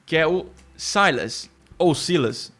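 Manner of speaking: "Silas" first with the English AI diphthong, then Portuguese; "Silas" said two ways; two pronunciations. Shown as a demonstration. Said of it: "vai usar esse ditongo I".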